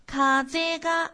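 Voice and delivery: 「風が」慢读，が不降调; 风が一路平稳不下降; 零调不降. Shown as a demonstration. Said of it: "读作風が". (「風が」零调慢读)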